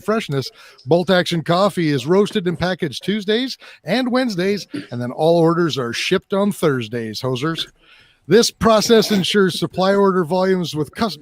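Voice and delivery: light mock Canadian accent with eh; hammed-up Canadian ad read. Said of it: "we'll just do a, a Canadian".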